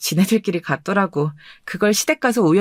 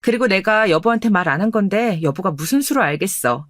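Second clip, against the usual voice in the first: ordinary talk, nothing marked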